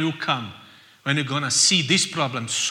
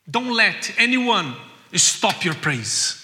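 loud, slow, emphatic; exhorting; 4 semitones higher, 6 dB louder, slower than usual. Acted. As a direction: drive it home to the church. Preacher exhorting.

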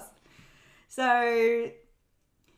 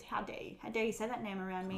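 a hissed, soft menace that gets faster; whispered Scar fury; 6 dB quieter, faster than usual. Retold or imitated. Scar snarls at Sarabi for saying the name, in a whisper. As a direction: seethe the words through your teeth.

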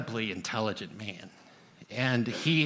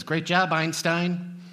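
sarcastic; 6 semitones higher, slower than usual. Retold or imitated. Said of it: "my brother looks at me and says".

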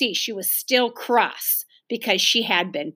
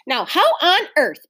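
raised pitch, mildly baffled; puzzled; 7 semitones higher, 5 dB louder than usual. A narrator's reading. Mother wonders about the locked door, puzzled. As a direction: wonder aloud, stressing how. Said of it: "in a puzzled voice".

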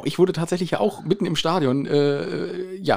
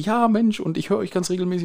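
higher-pitched imitation of an excited fan; a touch of a gushing fan, pitched up; retold female fan; 5 semitones higher than usual. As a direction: lightly voice a woman greeting someone she recognises. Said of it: "da sagt sie".

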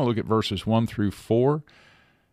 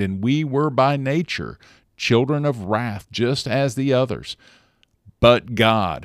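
raised, ringing Bible reading that swells on the key lines; proclaiming Ephesians aloud to listeners; scripture reading; 2 semitones higher than usual. Acted. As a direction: read it out like a preacher at the lectern. I'll read the scriptures for us.

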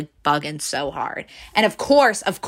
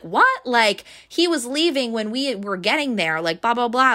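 incredulous boss; 6 semitones higher than usual. Retold or imitated. Boss finds out shipment never came, incredulous. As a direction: voice the boss's surprise, pitched up.

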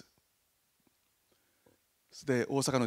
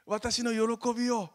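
higher, slow and louder invitation; joyful Jesus; 10 semitones higher, 5 dB louder than usual. Retold or imitated. Jesus inviting the disciples into his joy, slow and lifted. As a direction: stretch out the joy, slowly. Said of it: "って".

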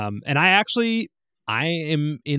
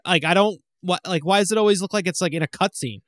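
louder, higher exasperated grumbling; grumpy complaint; 6 semitones higher, 4 dB louder than usual. Retold or imitated. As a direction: grouse like a confused old-timer. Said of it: "You sound like my grandpa buying a widescreen D V D".

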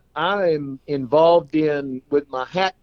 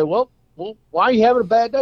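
voicing the friend; 8 semitones higher than usual. Joke, friend asks the clown.

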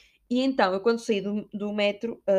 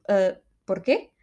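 Spanish porquê; 3 semitones lower, much slower than usual. Shown as a demonstration. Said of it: "lá estou eu a falar espanhol".

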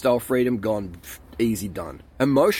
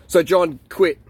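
emphatic call; 3 semitones higher, 4 dB louder than usual. Real, not acted. Loud direct call to quit.

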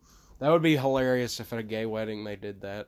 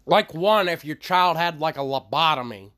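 raised, higher voice; yelling; 6 semitones higher, 7 dB louder than usual. Real, not acted. Pressing for a number to be proud of, yelling. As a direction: belt it out far too loud. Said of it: "Why do you yell?".

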